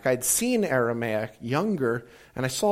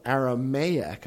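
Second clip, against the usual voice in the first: Aramaic spelled out slowly, each syllable clear; slow correction; slower than usual. Retold or imitated. Friend slowly correcting the speaker's mishearing. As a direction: correct him patiently, drawing out Aramaic. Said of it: "And then he went, "No".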